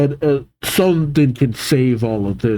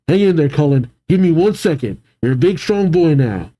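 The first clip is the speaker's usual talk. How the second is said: slightly raised encouraging call; mild cry out; 3 semitones higher, faster than usual. Acted. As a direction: call out to a child, understated. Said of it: "He cries out".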